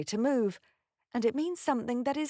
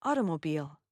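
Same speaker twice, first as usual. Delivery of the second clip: American accent; 7 semitones lower than usual. Shown as a demonstration. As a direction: say AUTOMOBILE the American way, "AH-duh-mo-beel". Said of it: "American accent".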